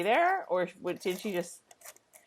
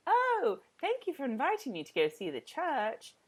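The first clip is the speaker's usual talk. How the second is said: mock Claire; 7 semitones higher, 3 dB quieter than usual. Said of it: "Claire's like".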